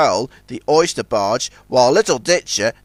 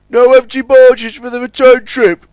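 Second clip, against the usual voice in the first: high and loud surprised question; 9 semitones higher, 8 dB louder than usual. A narrator's reading. Warrior finds no empty barges, surprised. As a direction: ask it taken aback. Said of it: "he asked, surprised".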